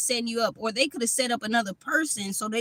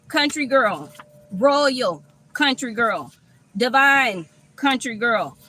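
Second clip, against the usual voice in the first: slow, drawn-out proclamation, a bit louder; slow emphatic praise; 3 dB louder, slower than usual. Acted. Reader hyping the viewer up, slow and emphatic. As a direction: crown her slowly, word by word.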